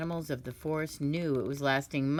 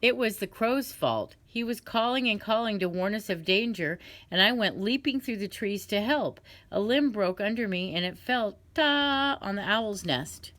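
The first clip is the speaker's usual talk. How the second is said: monkey pleading; 5 semitones higher than usual. Acted. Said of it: "said the monkey".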